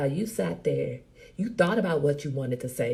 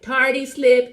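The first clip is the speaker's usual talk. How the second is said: "Tardy slip" set apart, louder and higher; air quotes; 7 semitones higher, 8 dB louder, slower than usual. Shown as a demonstration. Teasing a viewer about wording, "Tardy slip" loud in quotes. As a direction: punch "Tardy slip" as if in quotation marks. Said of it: "in quotes".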